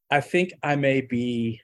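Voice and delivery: slow, sheepish confession. Retold or imitated. To a coworker, admitting it, sheepishly slow. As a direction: hang back a little, embarrassed to admit it. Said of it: "and I'm just very sheepish".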